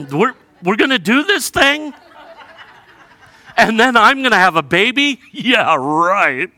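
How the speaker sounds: high, loud, laughing disbelief; incredulous laughing. Retold or imitated. Preacher voicing Sarah, laughing in disbelief. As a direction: laugh at the absurd idea.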